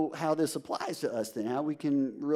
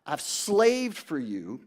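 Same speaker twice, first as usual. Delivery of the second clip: put-on older son's complaint; 4 dB louder, much slower than usual. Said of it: "He said".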